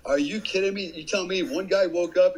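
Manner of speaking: can't believe what he's hearing; incredulous. Retold or imitated. Angry disbelief at interpreter.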